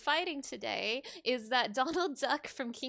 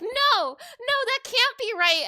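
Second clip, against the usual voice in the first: shocked protest; 11 semitones higher, 8 dB louder than usual. Retold or imitated. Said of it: "And I'm like".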